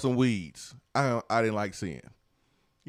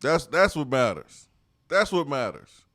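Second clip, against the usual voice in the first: hyped; 4 semitones higher, 5 dB louder than usual. Real, not acted. Hyped repeated catchphrase.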